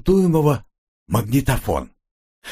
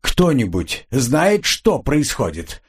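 growling; 3 semitones higher, slower than usual. Acted. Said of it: "прорычал он".

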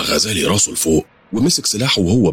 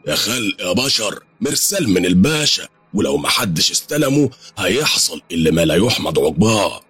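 calling at the door; 3 semitones higher than usual. Acted. The messenger calling at the door with a pasha's message. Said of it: "بيخبط على الباب جامد وبيقول".

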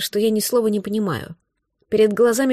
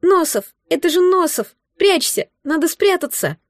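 delirious scream; 7 semitones higher than usual. A narrator's reading. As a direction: scream in terror from a fever dream. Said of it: "мальчик снова закричал в бреду".

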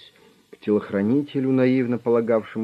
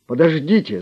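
loud, high panicked shout; terrified cry; 8 semitones higher, 8 dB louder than usual. A narrator's reading. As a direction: cry out half dead with fear. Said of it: "закричал тот, полумёртвый от ужаса". (кричит в ужасе, громко и высоко)

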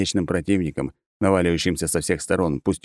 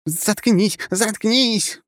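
furious; 14 semitones higher, much slower than usual. Acted. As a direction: yell it in a rage. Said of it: "тут же рассвирепела".

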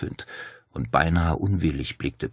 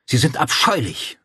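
raised, higher outcry of disgust; mild narrated scream; 7 semitones higher, 5 dB louder than usual. A narrator's reading. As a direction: cry out in revulsion, slightly restrained. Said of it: "schrie Claudia".

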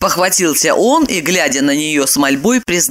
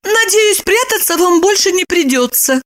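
high, uneasy woman; high, a touch of unease; lightly uneasy high voice; Lipochka shudders; 13 semitones higher than usual. A narrator's reading. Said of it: "Её передёрнуло".

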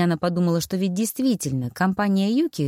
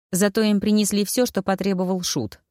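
ordinary delivery, nothing marked

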